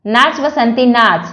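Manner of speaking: slow, lightly romantic mock line. Husband teasing his wife after the film, slow mock-romantic. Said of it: "पति ने पत्नी से romantic अंदाज में कहा".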